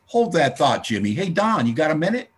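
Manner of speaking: calling out loudly across the room. Retold or imitated. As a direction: call Don over, loud and bright. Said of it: "my sponsor would say".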